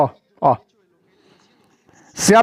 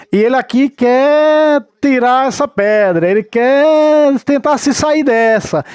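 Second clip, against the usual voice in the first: high, slow, stretched-out taunt; gleeful drawl; 4 semitones higher, slower than usual. Real, not acted. Commentator mocking the cornered pastor's escape attempt, gleeful drawl. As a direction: draw the key verbs way out, higher pitched.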